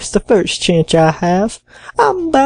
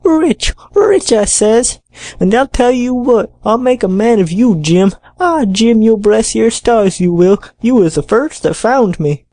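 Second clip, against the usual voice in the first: louder, heated castaway insisting he's rich; hotly insisting; 2 semitones higher, 4 dB louder, slower than usual. A narrator's reading. Castaway insists to doubting Jim, heated and loud. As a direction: insist on it, fired up. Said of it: "repeated the statement hotly".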